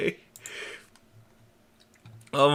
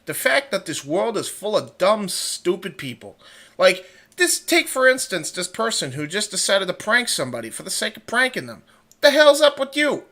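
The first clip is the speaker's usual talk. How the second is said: Peter Griffin impression; 3 semitones higher, 6 dB louder than usual. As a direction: rant like a cartoon dad. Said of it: "do a Peter Griffin impression".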